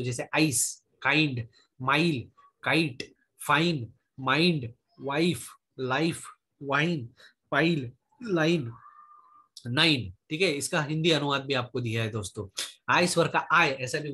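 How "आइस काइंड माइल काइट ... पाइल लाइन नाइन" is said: आइस, काइंड, माइल with a full "eye" glide; slow word drill on the आई sound, as in लाइन; आई diphthong demo. Shown as a demonstration. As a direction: pronounce काइंड, माइल, वाइफ slowly, one by one. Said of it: "आई ऐसा भी उच्चार होता है".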